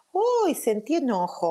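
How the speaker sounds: high yelp on uy, then sentí enojo; high startled uy naming anger; startled notice. Shown as a demonstration. Demo of noticing anger while moving.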